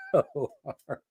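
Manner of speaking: high laugh cracking through the end; can't stop laughing as you say it; laughing hard. Real, not acted. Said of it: "I'm laughing so hard".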